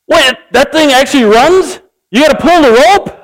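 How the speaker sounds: a mock gasp of realization; comic shock at pulling the rope; stunned surprise. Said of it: "The guy goes".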